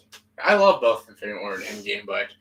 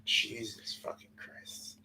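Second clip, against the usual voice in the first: muttered; 14 dB quieter, much slower than usual. Real, not acted. Muttered at long list.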